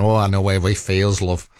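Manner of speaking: put-on a light, jokey Manchester accent; lightly put-on Manchester voice, said for fun. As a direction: toss it off in a hint of Manchester. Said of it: "with a Manchester accent".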